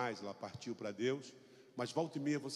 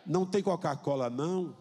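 louder, calling to mother in the kitchen; calling loudly; 3 dB louder than usual. Pretend. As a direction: call out so mom hears. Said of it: "Fala bem alto pra ela ouvir".

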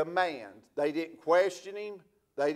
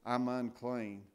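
mock warning; 3 semitones lower than usual. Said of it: "To give a warning".

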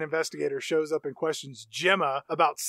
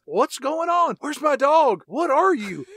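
mock-frantic higher, louder questioning; alarmed demand; 9 semitones higher, 5 dB louder, slower than usual. Neighbour demanding her dog back from the doll, mock alarm. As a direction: act out a rattled confrontation, pitched up and loud.

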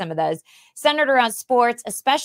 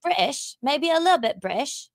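higher-pitched, lightly put-on British accent; playful British accent; 4 semitones higher than usual. Host guesses the guest's accent, playful British accent. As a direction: try on a little British. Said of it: "I think it's British".

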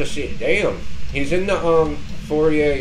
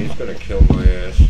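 being chased; 5 semitones lower, 6 dB louder than usual. Real, not acted. Ghost hunting them.

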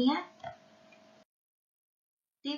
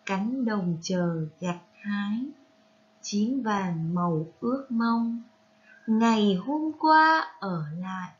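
poem recitation. Shown as a demonstration. Teacher reads the poem aloud as a model for pupils, poem recitation. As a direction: read verse line by line, unhurried.

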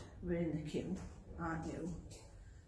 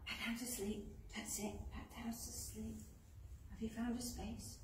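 much softer, hushed voice; soft settling voice; 3 semitones higher, 7 dB quieter than usual. Acted. Teacher softly putting the bunnies back to sleep. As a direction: coax them gently back to sleep.

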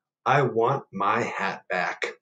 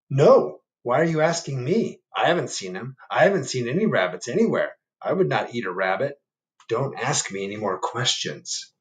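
defensive bear; 2 semitones higher than usual. Acted. Bear denying he ate the rabbit, defensive. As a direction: deny it too quickly. Bear denies, mirroring fox.

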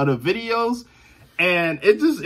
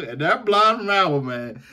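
high, stretched-out Southern admiration; Southern boy voice; 6 semitones higher than usual. Shown as a demonstration. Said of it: "say it in my Southern boy voice".

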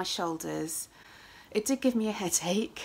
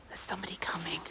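hushed whisper; 2 semitones lower, 10 dB quieter, much faster than usual. Real, not acted. Vlogger on a walk, spotting someone coming, whispers. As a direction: drop to a whisper as someone nears. Hiding talk from passerby.

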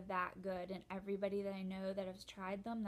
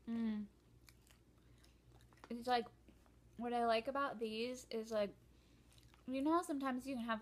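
chewing between words; talking while chewing. Real, not acted. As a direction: mouth partly full of nuts. Seen 1: puts almond in mouth at -4, chews while talking, holds more.

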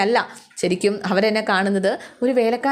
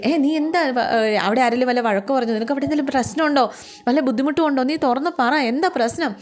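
higher, alarmed rush of questions; frightened questioning; 4 semitones higher than usual. Acted. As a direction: push out the questions, scared something is wrong. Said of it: "Aleena ആകെ പേടിച്ചു പോയിട്ടോ".

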